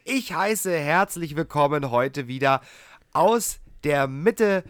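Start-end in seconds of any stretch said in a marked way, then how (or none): 3.1-4.6 lucha libre announcer. Acted. Drawn-out ring-style introduction of co-host.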